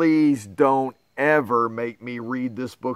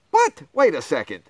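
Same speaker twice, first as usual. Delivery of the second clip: mock shock; faster than usual. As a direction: shriek it in hammed-up disbelief. Reader tricked again.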